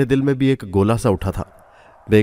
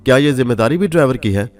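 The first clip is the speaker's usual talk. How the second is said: fuming outburst; 4 semitones higher, 4 dB louder than usual. Acted. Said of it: "Rashid साहब किलकिलाए".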